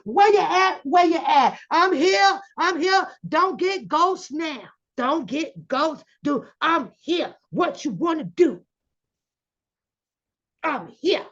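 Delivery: acting out a taunting call at the courthouse; mock yelling. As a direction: shout it across the parking lot. Acting out Bookham calling out.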